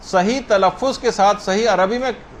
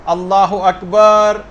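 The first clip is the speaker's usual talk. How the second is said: slow takbir demo; 5 dB louder, much slower than usual. Shown as a demonstration. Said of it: "چند second اور لگا دیے".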